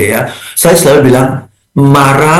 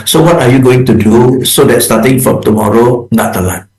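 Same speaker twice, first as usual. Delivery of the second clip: calm problem-focused boss; 5 semitones lower than usual. Shown as a demonstration. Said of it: "so we are focusing on the issue".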